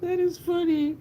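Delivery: high voice wobbling after laughter; amused, laughed-out. Real, not acted.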